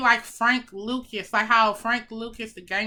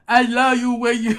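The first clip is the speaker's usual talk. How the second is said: odd emotional reading; 2 semitones lower, 6 dB louder than usual. Shown as a demonstration. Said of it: "Why did I read it like".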